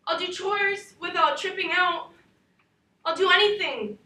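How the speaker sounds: pleading. Acted. Girl begs father to stay.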